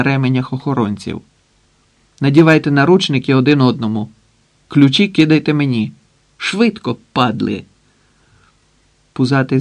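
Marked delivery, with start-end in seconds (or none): 2.2-7.6 hurried commands. Acted. Макар orders guards, gun in hand.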